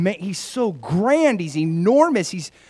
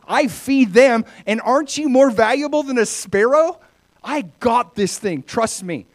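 emphatic reassurance, starting high and loud then settling; lightly voiced teacher making a confident case; Jesus; 7 semitones higher, 6 dB louder than usual. Jesus tells worriers he feeds the birds, reassuring. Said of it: "Jesus says".

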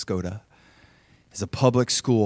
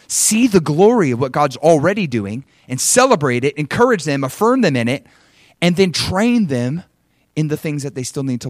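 louder, swinging pulpit cadence; emphatic preaching; 6 semitones higher, 8 dB louder than usual. Real, not acted. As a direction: exhort the congregation, punching each verb.

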